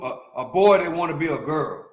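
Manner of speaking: normal talking voice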